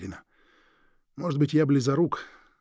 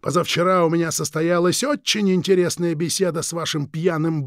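menacing villain; 3 semitones higher, 4 dB louder than usual. Acted. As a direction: savour each word like a veiled threat. Krieg continues.

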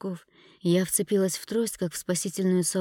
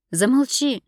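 high, loud yell to shut her up; shout; 7 semitones higher, 8 dB louder than usual. A narrator's reading. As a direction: cry out to stop her talking. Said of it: "крикнула я".

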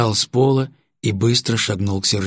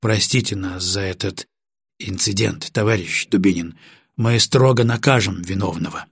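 apologetic; 2 semitones lower than usual. Acted. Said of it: "снова извинился".

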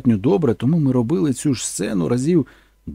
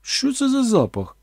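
higher, slow sniffing question; puzzled actress; 11 semitones higher, slower than usual. Retold or imitated. Actress suddenly stopping to ask about the smell, slow puzzled. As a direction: ask it like you smell something off. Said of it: "перестала кричати і сказала".

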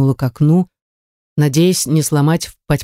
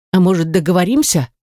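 hiccuping. Acted. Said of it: "икнул".

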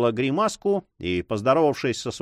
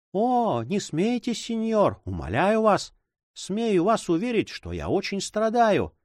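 put-on higher, mildly tearful girl's voice; tearful plea; 7 semitones higher than usual. A narrator's reading. Girl with tears in her eyes pleading with her guardian. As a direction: beg him not to laugh, a touch of tears. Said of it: "со слезами на глазах".

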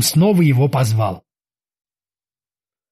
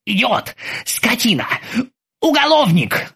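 fuming outburst; 6 semitones higher than usual. Acted. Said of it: "зашёлся Оззи".

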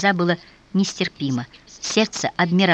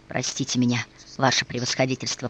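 whispered; 5 semitones lower, 5 dB quieter than usual. A narrator's reading. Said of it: "прошептал Николай".

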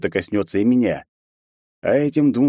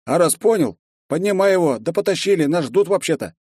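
angry; 10 semitones higher than usual. A narrator's reading. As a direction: snap at him to get moving. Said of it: "гневно ответил Тойди".

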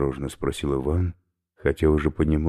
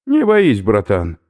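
encouraging; 7 semitones higher, 9 dB louder, slower than usual. Acted. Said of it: "подбодрил оберфюрер".

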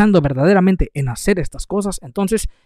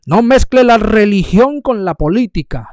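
scornful mock quote; 5 semitones higher, 5 dB louder than usual. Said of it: "Mucha gente dice".

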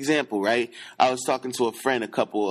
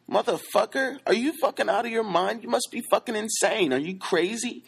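retold outrage; 8 semitones higher than usual. Retelling a fight with a friend.

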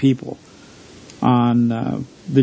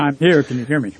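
over the phone. Real, not acted. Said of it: "I hear you loud and clear".

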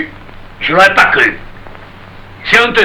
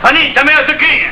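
high, raised-pitch call; 11 semitones higher than usual. Acted. Marius tells Fanny her mother is calling, calling out. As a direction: call her name across the shop.

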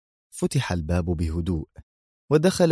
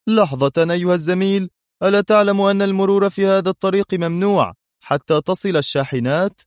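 higher, louder guard halting a stranger; guard's challenge; 11 semitones higher, 5 dB louder than usual. A narrator's reading. Guard stopping Adham on the stairs, loud challenge. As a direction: call out sharply like a factory guard. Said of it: "أوقفه أحد الحرس قائلًا".

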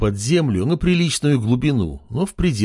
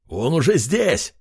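terrorist shouting; 3 semitones higher than usual. A narrator's reading. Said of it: "прокричал террорист".

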